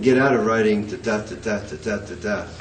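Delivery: steady da DA da DA pattern; droning meter; iambic beat demo. Shown as a demonstration. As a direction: chant the iambic rhythm.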